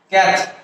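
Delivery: ক্যাথলিক as kæth, long pause, lik; ক্যাথলিক in two separate beats, kæth and lik; dropped vowel, split. Shown as a demonstration. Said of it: "ও ভাওয়ালটাকে drop করে".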